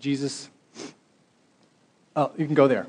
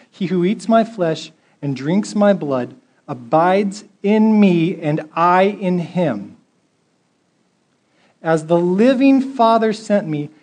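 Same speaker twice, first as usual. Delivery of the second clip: raised, solemn reading of Jesus' words; scripture reading; 3 dB louder than usual. Acted. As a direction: proclaim the verses to the congregation. Reads scripture aloud in sermon.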